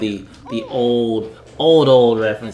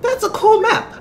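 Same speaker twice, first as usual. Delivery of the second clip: much higher, slower squeaky falsetto voice; high put-on voice. Reading Mario's letter aloud, in a squeaky high voice. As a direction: squeak it out in a slow cartoon falsetto. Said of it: "I was like".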